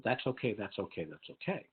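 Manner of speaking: lightly voiced teacher hushing a panicked student; soothing reassurance. Teacher comforting a crying student, softening to a hush. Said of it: "the teacher put her arm around and said".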